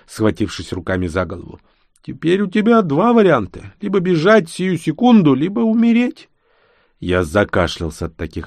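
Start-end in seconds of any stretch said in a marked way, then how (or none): 2.0-6.3 put-on higher old man's voice, urgent and grim; old baron, grave warning. A narrator's reading. Old baron warns the young hero, grim and urgent. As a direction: spell out the deadly choice like a frightened old lord.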